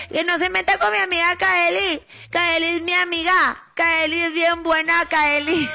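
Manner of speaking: lightly hammed drunk voice; tipsy Lupita voice. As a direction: play the tipsy friend defending Kaeli. Drunk-ish defending friend Kaeli.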